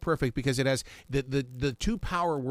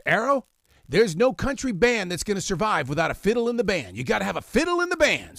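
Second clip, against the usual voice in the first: put-on quoting his old boss; 6 semitones higher, 4 dB louder than usual. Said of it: "he goes".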